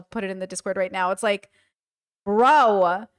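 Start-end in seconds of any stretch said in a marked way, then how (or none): 2.3-3.1 low, loud mock scream; imitated screaming. Streamer imitating a favorite screaming gif, mock scream. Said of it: "that screaming? There's that screaming gif".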